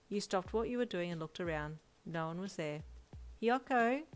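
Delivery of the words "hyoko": put-on calling out to the child across the house. A narrator's reading. Mother calls her son's name from the kitchen, calling out. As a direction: call his name. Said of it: "you called out".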